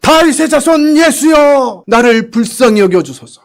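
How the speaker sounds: slow, high desperate shout. Retold or imitated. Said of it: "더 큰 소리를 질렀어요".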